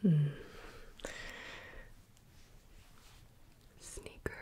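faint whisper right into the ear; barely audible words, hushed into the ear. Shown as a demonstration. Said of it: "when I whisper something in your ear".

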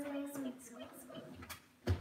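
soft little squeaks; mouse squeak. Shown as a demonstration. Repeating the mouse noise for the baby, soft squeaks. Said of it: "The mouse goes squeak".

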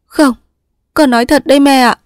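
high, upset daughter's voice; desperate daughter meaning every word; distraught insistence. Acted.

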